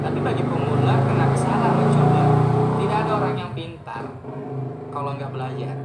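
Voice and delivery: loud passionate declaration; emphatic shout. Real, not acted. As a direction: shout it out with conviction.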